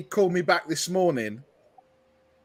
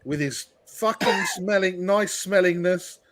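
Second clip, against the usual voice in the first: mock lament. Real, not acted. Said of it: "getting a bit emotional now".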